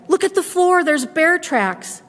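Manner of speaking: put-on high, excited children's voices; children crying out. Children spot bear tracks, crying out high. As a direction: point and shout like excited kids. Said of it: "the children cried".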